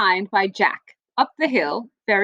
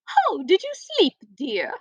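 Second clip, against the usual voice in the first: queen; 3 semitones higher than usual. Acted. Queen voiced in story.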